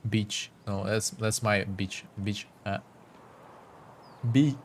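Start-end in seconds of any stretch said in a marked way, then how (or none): 0.7-2.0 my punched, slow and soft; slow, soft, weight on my; stress on my. Shown as a demonstration. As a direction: lean on my, say beach slowly. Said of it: "I cannot do it in normal accent".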